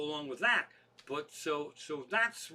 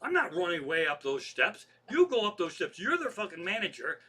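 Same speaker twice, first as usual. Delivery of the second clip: retold indignant refusal. Retells own angry refusal to manager.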